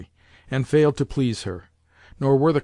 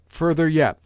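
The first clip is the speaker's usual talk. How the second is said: the same call a little less loud; repeated cry; 4 semitones higher, 4 dB louder than usual. Acted. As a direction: repeat the order, easing off slightly. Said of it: "the old lady cried".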